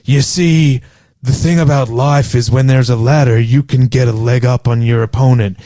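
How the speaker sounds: half-serious gangster monologue; mock-serious gangster. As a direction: deliver it like weighty life advice, lightly hammed. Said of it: "trying to get all serious".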